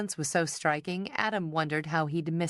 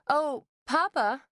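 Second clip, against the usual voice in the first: teasing sing-song; 10 semitones higher, 3 dB louder, slower than usual. A narrator's reading. Daughter teasing father.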